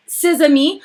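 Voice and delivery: playful slip into French; French accent. Pretend. Host translating "his friends" for fun, French accent. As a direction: toss it in with a put-on French accent. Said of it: "doing this French thing".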